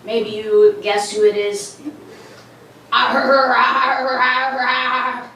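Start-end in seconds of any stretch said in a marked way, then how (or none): 2.9-5.3 crude impression with drawn-out growling; exaggerated slow, growly politician; R F K Junior. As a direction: growl and stretch the words, level in pitch. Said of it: "I would like to now do my impression".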